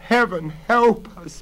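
high, loud anguished plea; desperate tearful cry; sobbed plea. A narrator's reading. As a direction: beg heaven for help in despair. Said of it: "Bella sobbed".

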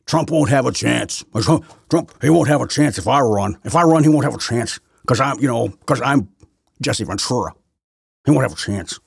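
a lightly put-on, boastful tough-guy voice, not far from his own; hammed-up swagger, bragging about beating Trump; bad Jesse Ventura impression. Vlogger mocks the ex-governor's old boast, lightly impersonated. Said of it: "that's a bad, bad im-, impersonation".

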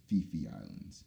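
Phi Phi misread as "fee fee". Shown as a demonstration. Explaining the spelling to listeners, Phi Phi wrongly with F. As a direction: say Phi Phi with an F sound. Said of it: "it's spelled P H I P H I".

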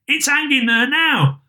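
put-on high-pitched boy's voice; street boy. A narrator's reading. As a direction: pipe up like a small lad. Boy answers Scrooge in story.

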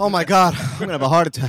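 winded, heavy breathing between phrases. Real, not acted. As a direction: puff it out as if worn out from exertion. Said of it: "Fucking Sham is breathing heavy".

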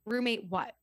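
blunt, stern question; short and stern, not aggressive. Retold or imitated. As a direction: retell a curt reply to an interruption. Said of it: "that's how it came out".

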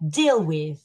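"deal with" with DEAL leaned on; stress on verb. Shown as a demonstration. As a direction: show the stress on "deal", leaving "with" light. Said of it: "I would put it on the verb".

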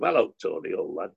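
mock Yorkshire accent, dropping low at the end; put-on Yorkshire accent. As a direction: play the Yorkshireman lightly. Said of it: "God has to come from Yorkshire".

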